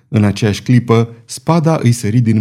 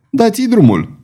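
a mild, higher roar to start; 9 semitones higher than usual. Acted. Jailer roaring at the chained duelist to begin. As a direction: bark the go signal upward. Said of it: "răgni el".

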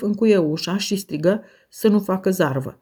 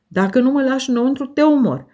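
higher, louder, fast desperate scream; 6 semitones higher, 4 dB louder, faster than usual. A narrator's reading. Linton locked out, screaming at the door. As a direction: shriek the threat in helpless fury. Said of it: "spunea, mai bine zis, țipa".

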